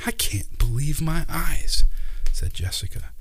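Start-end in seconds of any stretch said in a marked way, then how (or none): 0.0-1.8 slow amazement. Acted. Child amazed at lights.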